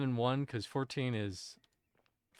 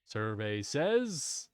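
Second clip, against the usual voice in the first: very slow, low drawn-out host call; slow, low host-style buildup; lower game show host reveal; much slower than usual. Pretend. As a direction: drag it out low for suspense. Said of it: "sitting here in the Family Feud".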